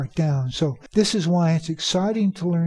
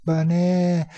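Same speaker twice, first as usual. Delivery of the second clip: "Bana-" cut off on a long NA; stressed second syllable. Shown as a demonstration. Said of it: "you hear that stress?".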